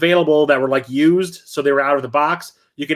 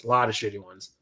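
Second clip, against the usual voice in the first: much softer, lower, trailing aside; quiet muttered repeat; 6 semitones lower, 9 dB quieter than usual. Real, not acted. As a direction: drop it under your breath as an afterthought.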